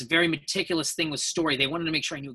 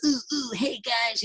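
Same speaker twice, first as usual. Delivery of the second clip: lightly voiced eager anime boy, a bit higher; anime young guy; 7 semitones higher, slower than usual. Actor recalling his audition, lightly voicing a chirpy anime boy. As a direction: toss off a peppy young anime hero greeting. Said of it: "this young guy in anime".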